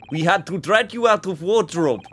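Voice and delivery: a hammed-up bad Russian accent; shitty Russian accent. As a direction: play a Russian policeman badly, on purpose. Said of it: "my shitty Russian accent".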